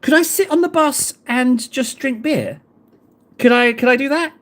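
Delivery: a hint of an American tourist voice; lightly put-on American accent; American impression. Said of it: "I felt like my impression was spot on".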